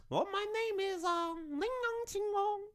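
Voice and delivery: put-on very high, squeaky cute Asian accent, anime style; hammed-up cute anime girl voice. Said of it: "Oh, this is terrible".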